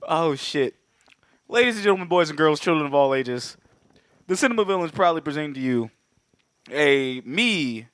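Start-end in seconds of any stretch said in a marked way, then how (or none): 1.5-7.9 announcer-style showman intro; ringmaster. Acted. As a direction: boom it out like a circus barker. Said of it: "as I do this opening".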